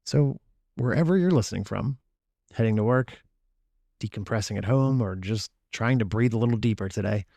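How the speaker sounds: calm, measured host intro over music; soothing scripted welcome; podcast intro read. Acted. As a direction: ease listeners in like a wellness show opener.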